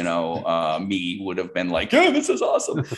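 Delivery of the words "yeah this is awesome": put-on high, thrilled little boy; kid excitement. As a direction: gush like an eight-year-old who loves the toy. His kid self thrilled by toys.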